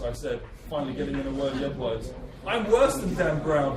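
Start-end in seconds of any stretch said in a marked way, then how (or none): 2.5-3.8 a slow gleeful cackle; cackling. Acted. Baron boasting to the writer with a slow cackle. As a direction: draw it out, relishing the boast. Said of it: "he cackled".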